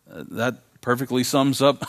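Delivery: ordinary talk, nothing marked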